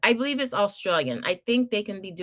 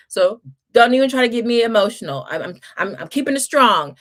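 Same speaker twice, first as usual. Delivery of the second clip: holding back tears; 2 semitones higher, 7 dB louder, faster than usual. Real, not acted. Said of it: "not gonna get teary-eyed".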